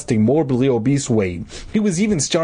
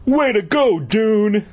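put-on high, excited boy's congratulation; grinning cheer; 8 semitones higher, slower than usual. A narrator's reading. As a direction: whoop it to a pal. Moose's cheer read out again.

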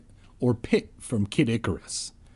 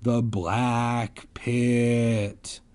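slow, drawn-out spooky announcement; hammed-up creepy whisper of doom; ominous girl voice; much slower than usual. A narrator's reading. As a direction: make it sound like doom. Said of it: "a girl exclaimed".

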